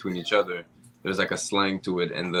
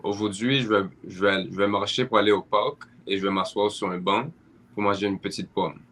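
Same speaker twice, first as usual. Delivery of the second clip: French French accent. Shown as a demonstration. Demonstrating to friends the French French accent. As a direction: speak it purposely in a French French way. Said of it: "So I spoke French in a French way, um, purposely".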